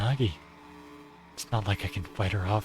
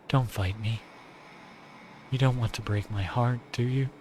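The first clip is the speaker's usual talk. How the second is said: lightly voiced adoring yandere girl; tender but possessive; Nagi voice; 2 semitones higher than usual. Nagi coaxing.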